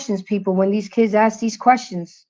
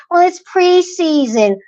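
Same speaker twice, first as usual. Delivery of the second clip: higher, drawn-out mock excuse; mocking imitation; 8 semitones higher, slower than usual. Fans throwing a loss in her face, mockingly imitated. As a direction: mimic their excuse in a slow, higher voice.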